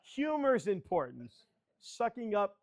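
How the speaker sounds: amused comeback with a laugh; laughing reply. Real, not acted. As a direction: laugh it off and own it. Answers the tease laughing.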